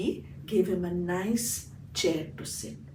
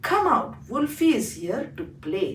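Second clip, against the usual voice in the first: high, loud call to the sons; 4 semitones higher, 6 dB louder than usual. Acted. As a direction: call the children from the back. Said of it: "she called out to her three sons".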